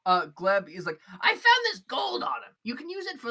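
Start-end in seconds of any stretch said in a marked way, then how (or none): 1.2-3.3 high, loud breezy voice; chatty shopkeeper. Acted. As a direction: rattle it off cheerfully. Gleb offers gold.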